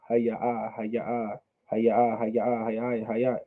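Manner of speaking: Haya said slowly with the end vowel held; taking your time. Shown as a demonstration. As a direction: drag out each Haya softly. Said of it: "if you take your time".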